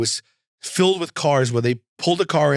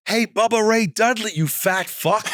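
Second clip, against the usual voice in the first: heckling yell; 8 semitones higher than usual. Retold or imitated. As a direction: yell it out to taunt a wrestler from afar. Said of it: "And I yell out".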